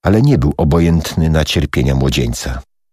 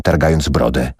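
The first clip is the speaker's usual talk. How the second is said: ordinary delivery, nothing marked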